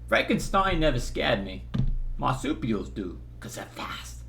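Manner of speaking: Christopher Walken impression. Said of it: "Or Chris Walken".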